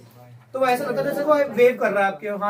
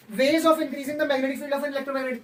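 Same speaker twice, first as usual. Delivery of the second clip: slow reading aloud; much slower than usual. Shown as a demonstration. Reads heading slowly.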